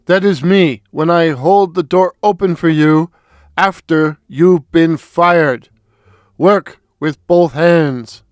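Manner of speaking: put-on a light East German accent on a stern old boss; lightly voiced East German commissar, mock stern. East German commissar scolding young Comrade Warren, light East German accent. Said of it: "in his thick East German accent".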